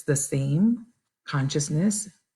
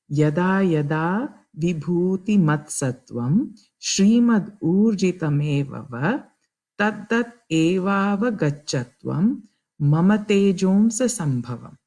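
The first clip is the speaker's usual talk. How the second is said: slow, careful Sanskrit chant-like reading; slow verse recitation. Shown as a demonstration. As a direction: recite the Gita verse deliberately. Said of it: "I'm gonna attempt reading it".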